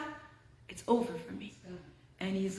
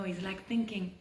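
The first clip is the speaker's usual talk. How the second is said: whisper; 4 semitones lower, 8 dB quieter than usual. A narrator's reading. Tense hiding scene.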